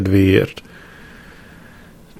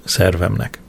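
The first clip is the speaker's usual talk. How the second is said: ordinary delivery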